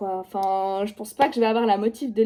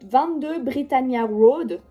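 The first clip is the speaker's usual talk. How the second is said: "Britannia Road" slowly in a clumsy English accent; bad English accent; slower than usual. Shown as a demonstration. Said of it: "mon accent anglais est nullissime".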